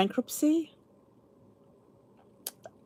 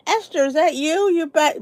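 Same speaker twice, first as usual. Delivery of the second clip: whispered surprise; 6 semitones higher, 3 dB louder than usual. Real, not acted. Spotting a returning viewer.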